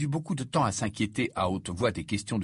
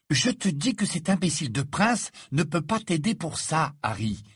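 higher-pitched insistence, mildly raised; insistent, raised voice; 7 semitones higher than usual. A narrator's reading. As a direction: press the point with a slightly raised voice. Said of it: "insista Hermione en haussant la voix".

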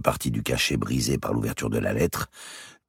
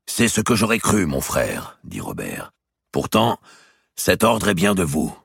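high, loud, wounded pride; indignant Robert; 5 semitones higher, 4 dB louder than usual. Acted. Robert protesting to his brother the king, indignant and loud. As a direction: storm in and throw it all back at the king.

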